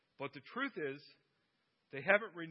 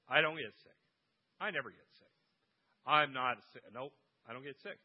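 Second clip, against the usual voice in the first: defiant Lorraine; 2 semitones lower, 6 dB louder than usual. Retold or imitated. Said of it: "she will respond with".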